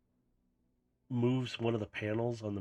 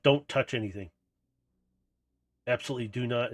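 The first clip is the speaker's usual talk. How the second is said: a firm, louder threat not to touch; threatening warning; 4 dB louder, faster than usual. Acted. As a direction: warn him off, half-mock menace. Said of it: "she's threatening him".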